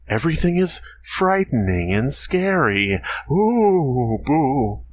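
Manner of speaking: hammed-up spooky narrator, rising panic; creepypasta narrator. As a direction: build from eerie to frantic, then slow dread. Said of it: "read it like a shitty creepypasta narrator".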